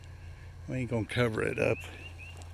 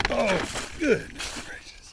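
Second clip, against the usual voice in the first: high, slow startled yelp of dismay; startled exclamation; 11 semitones higher, slower than usual. Real, not acted. Vlogger jumping into the trench, startled and much higher. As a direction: squeal it out as you nearly fall.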